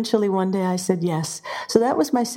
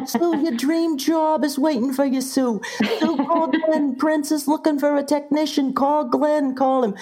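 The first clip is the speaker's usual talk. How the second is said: excited Boston guy on the phone; John's Boston accent; 7 semitones higher than usual. Retold or imitated. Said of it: "he had that thick Boston accent".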